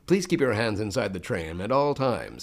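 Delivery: polite theme park announcement voice; Disney ride announcer. Retold or imitated. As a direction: announce it to riders on the tram. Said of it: "who you might hear in Disneyland".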